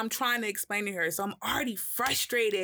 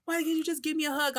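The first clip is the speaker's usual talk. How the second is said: put-on much higher, plaintive girlfriend voice; imitating girlfriend; 9 semitones higher, faster than usual. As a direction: beg for a hug like she did. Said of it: "And she was like".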